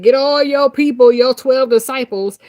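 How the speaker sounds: loud, insistent storytelling order; emphatic retold command. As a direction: summon everyone forcefully, mock-commanding. Retold orders given to Jesus.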